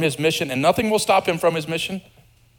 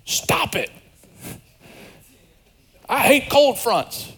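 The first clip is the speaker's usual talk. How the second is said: mock yell; 9 semitones higher, slower than usual. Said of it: "yell out the window".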